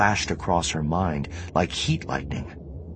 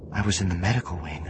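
mechanical; 3 semitones higher, faster than usual. Acted. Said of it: "Mara said mechanically".

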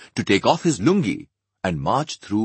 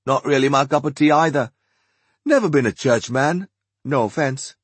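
Archie, apologetic; 7 semitones higher, 5 dB louder than usual. Acted. Archie continues.

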